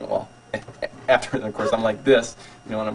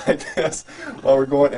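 terrified laughing shriek; scream-laugh; 4 semitones higher than usual. Retold or imitated. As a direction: relive the freefall with a shrieking laugh. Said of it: "I'm going".

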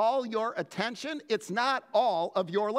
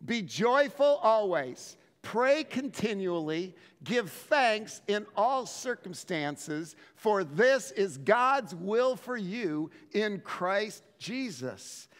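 slow, measured scripture reading aloud; congregational reading; slower than usual. Real, not acted. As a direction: read it together with the people, steady. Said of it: "Would you read it with me?".

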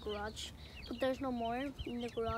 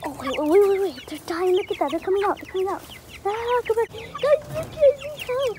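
loud, high, frantic calls as the chickens swarm; excited shouting; 7 semitones higher, 13 dB louder than usual. Real, not acted. Vlogger shouting as chickens crowd her at feeding, excited. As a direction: yell in real panic-fun, louder and higher.

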